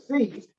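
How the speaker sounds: seat, with a long clean ee; clear seat vowel. Shown as a demonstration. Teacher spelling out seat for students, crisp and clear. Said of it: "is S lowercase I and a T".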